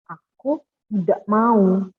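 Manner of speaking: loud, very slow refusal; emphatic refusal. Shown as a demonstration. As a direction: stretch it out, insisting. Contoh kalimat seru. (guru mencontohkan penolakan: lantang dan lambat)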